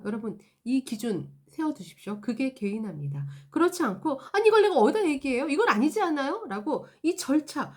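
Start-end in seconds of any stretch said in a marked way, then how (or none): 4.3-6.4 fast, loud exasperated complaint; frustrated customer. Acted. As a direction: vent at the process not the person. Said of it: "클레임에 대한 힘듦을 얘기하는데". (절차에 답답해하는 고객의 빠르고 큰 항의)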